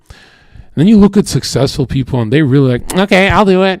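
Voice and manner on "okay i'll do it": high, chirpy mock-flamboyant voice. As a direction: imitate someone cheerfully flamboyant, pitched up. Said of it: "flamboyant shit".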